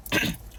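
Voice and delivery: clearing the throat to get into character. Shown as a demonstration. Storyteller readies cop impression, clearing throat. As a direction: clear your throat before a voice. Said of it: "oh, hold on, my cop impression".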